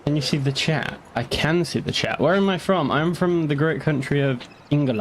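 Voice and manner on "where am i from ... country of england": a half-hearted, semi-Dutch twist on English; playful mock semi-Dutch accent. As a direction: put on a slight Dutch accent for a moment. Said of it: "like, a weird semi-Dutch accent".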